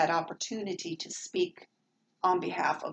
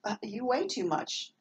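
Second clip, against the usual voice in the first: mock incredulous reply; 3 semitones higher than usual. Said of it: "And I'm like".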